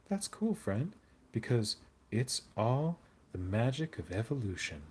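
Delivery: mock cheerful sculptor gushing; hammed-up happy Goobertown, a touch brighter; happier Goobertown. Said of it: "Oh, I gotta be happier when I do Goobertown?".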